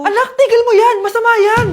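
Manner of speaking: high, loud urgent warning; alarmed scolding. Acted. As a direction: stop your child in a panic. Mother alarmed, stops child. (natatarantang saway ng nanay)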